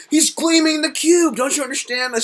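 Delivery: pleading that she should get it; imitating his earnest self. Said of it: "I was like".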